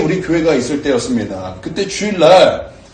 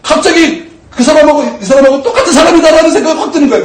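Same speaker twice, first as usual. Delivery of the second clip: much higher and louder, laughing through it; 10 semitones higher, 6 dB louder than usual. Real, not acted. Pastor laughing about his own outburst. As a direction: laugh at yourself while telling it.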